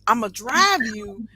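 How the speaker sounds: stretched-out key words in an eager retold offer; enthusiastic pitch. Salon owner retells recruiting London stylists, enthusiastic pitch. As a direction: sell it keenly, leaning on the big words. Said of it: "I mean, I was enthusiastic".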